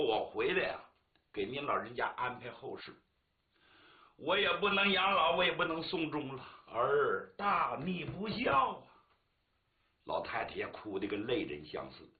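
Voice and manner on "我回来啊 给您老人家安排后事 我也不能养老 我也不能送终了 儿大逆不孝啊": weeping son. Acted. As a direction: mourn to his mother, tearful. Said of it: "见他娘他哭了". (儿子对母亲带哭腔诉说)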